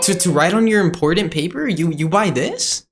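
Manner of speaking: high, incredulous questioning; mock judging. Seller judging pens for important paper, mock disbelief. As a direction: question the choice in mock horror. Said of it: "straight up judging him".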